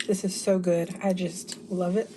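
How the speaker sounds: talking through a mouthful; mouth full. Real, not acted. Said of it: "talking with my mouth full".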